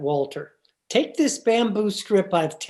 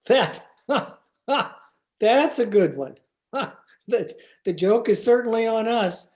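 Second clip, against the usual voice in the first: laughing; 3 semitones higher than usual. Acted. Laughing at the mistake.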